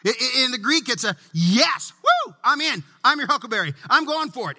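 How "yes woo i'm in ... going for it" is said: emphatic yes. Retold or imitated. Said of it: "this emphatic declaration".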